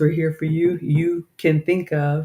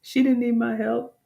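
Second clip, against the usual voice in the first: self-mocking; 8 semitones higher than usual. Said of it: "heard me helping out Shantae".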